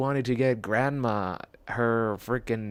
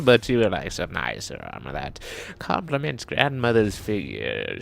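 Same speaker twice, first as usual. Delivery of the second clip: grandma voice; 3 semitones higher, 4 dB louder than usual. Pretend. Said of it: "My grandmother voice is going to need work".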